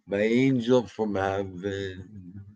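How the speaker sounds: slow, tender repeat of angel from heaven. Shown as a demonstration. Doting owner slowly repeating praise of his dog James, tender. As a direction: linger lovingly on the phrase. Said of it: "He's my angel from heaven".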